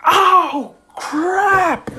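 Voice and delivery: high, loud cry of alarm; panicked yell. Acted. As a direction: blurt it out in mock panic. Hero panics after the punch.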